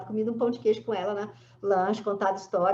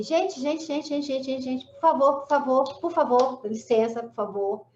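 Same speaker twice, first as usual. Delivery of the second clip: raised voice calling the crowd to order; calling for attention; 4 semitones higher, 3 dB louder than usual. Retold or imitated. At a noisy funeral, calling the family to calm down, raised voice. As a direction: call out over a grieving family. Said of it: "eu falei assim".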